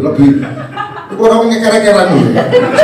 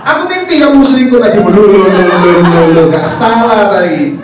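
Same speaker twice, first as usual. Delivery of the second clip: jealous wife; 4 dB louder than usual. Retold or imitated. Wife accusing about dream.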